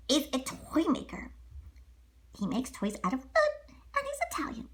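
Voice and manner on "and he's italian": unvoiced stage whisper; hushed aside to the kids. Aside about Geppetto.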